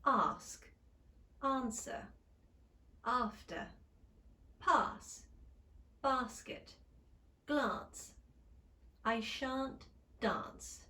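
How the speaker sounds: slow British examples with broad ah; Standard British. Shown as a demonstration. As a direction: model each word in Standard British. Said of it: "try some examples".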